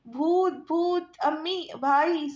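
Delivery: panicked yelling for family; frightened calling out. A narrator's reading. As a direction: shriek for help at a ghost in the dark. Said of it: "لوگوں کے نام پکارتی".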